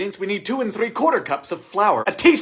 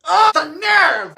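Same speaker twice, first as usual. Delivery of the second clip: mock offended; 8 semitones higher, 3 dB louder, much slower than usual.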